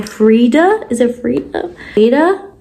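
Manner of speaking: "Frida" tried out with a questioning rise; unsure pronunciation. Real, not acted. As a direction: test the name "Frida", unsure how it goes. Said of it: "I pronounce it like that".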